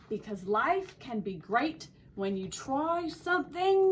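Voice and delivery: story read with an attempted Australian accent; lively storyteller trying an Australian accent. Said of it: "my attempt at an Australian accent".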